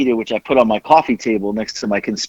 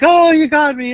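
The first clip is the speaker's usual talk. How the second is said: caught-out coworker; 14 semitones higher, 4 dB louder than usual. Retold or imitated. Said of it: "starts laughing".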